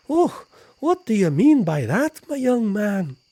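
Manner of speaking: put-on high, loud, indignant old lady; mock offended nanny; shrieking granny asking what you mean; Mrs Doubtfire voice. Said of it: "love child of Miss Doubtfire".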